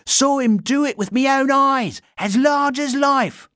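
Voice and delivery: high, put-on common voice; gossiping bystander. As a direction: play a busybody witness, slowing at the end.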